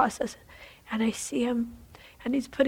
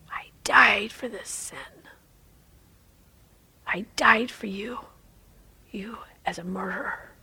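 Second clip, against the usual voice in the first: whispered voice of the Lord. Acted. The Lord speaks to the doctor.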